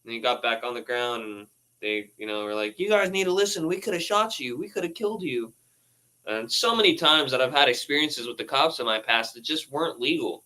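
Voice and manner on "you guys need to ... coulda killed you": retold police scolding. Voicing police scolding the kids.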